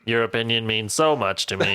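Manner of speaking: sarcasm that barely shows in the tone; deadpan sarcasm. Acted. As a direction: say it sarcastically with hardly any inflection. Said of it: "It's just not coming through in the tone".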